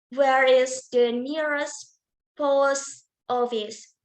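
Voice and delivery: slow example question, voice falling on "post office"; falling intonation. Shown as a demonstration. Teacher demonstrating falling intonation to students, falling intonation. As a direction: let "post office" drop at the end. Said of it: "falling intonation".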